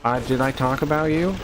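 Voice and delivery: mock innocent questions; lightly mocked fake cluelessness; playing dumb. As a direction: imitate someone feigning ignorance. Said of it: "he tries to play, like, dumb".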